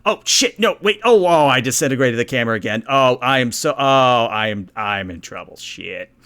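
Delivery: P-chan panicking. Acted. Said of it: "And P-chan goes".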